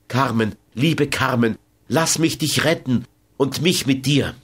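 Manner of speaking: a touch of urgent begging, understated; José pleading. Acted. José begs Carmen to let him save her, mildly pleading.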